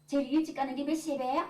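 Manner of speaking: mock-frosty question from an annoyed wife; cold, curt. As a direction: ask curtly, as if turned away. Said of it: "눈길도 안 주고는 돌아서가지고 쌀쌀맞게".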